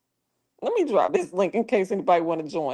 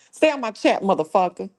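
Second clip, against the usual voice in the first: irritated warning; 3 dB louder than usual. Real, not acted. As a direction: warn the troll off, pitch jumping up. Redoes the warning with the curse.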